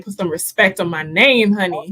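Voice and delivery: a hint of a rapper's swagger, pushed out loud. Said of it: "the wise words of Birdman".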